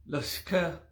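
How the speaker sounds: LASKA with the middle I swallowed; varied vowel intonation. Shown as a demonstration. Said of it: "depending on the intonations of the vowels".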